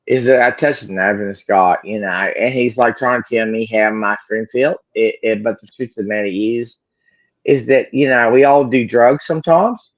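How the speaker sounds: put-on almost-Australian accent; attempted Australian accent. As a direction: have a go at an Aussie accent. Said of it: "you've almost got the accent".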